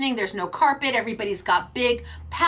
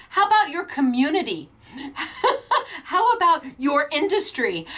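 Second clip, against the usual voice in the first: laughing lecture; 3 semitones higher than usual. Retold or imitated. Dad's gentle lecture.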